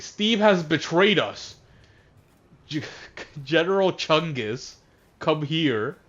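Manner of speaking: mock-dramatic villainess command; evil lady. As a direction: summon a henchman like a hammed-up evil queen. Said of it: "the evil lady".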